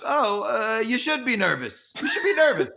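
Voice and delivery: high-pitched teasing impression; Larry. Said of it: "And he goes".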